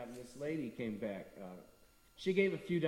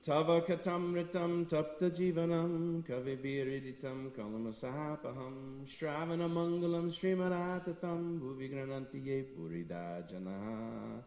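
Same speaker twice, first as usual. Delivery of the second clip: slow, measured chant-like reading; Sanskrit verse recitation; slower than usual. Acted. Preacher reciting a famous gopi verse to the congregation, slow and reverent. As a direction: intone each Sanskrit phrase slowly and reverently.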